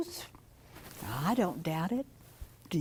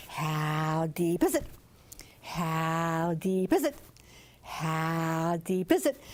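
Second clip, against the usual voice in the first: lower, slow croaked question; deeper frog talk call; 6 semitones lower, slower than usual. Acted. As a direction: croak it slow toward the bigger frogs. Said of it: "he called the bigger frogs".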